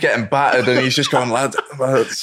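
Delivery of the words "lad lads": put-on Scouse accent. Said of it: "In the Scouse accent".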